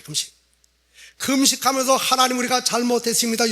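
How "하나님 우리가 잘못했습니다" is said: higher-pitched mock plea for forgiveness; lightly acted collective confession; acted repentant plea. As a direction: cry out an apology to God. People fasting, begging God's forgiveness.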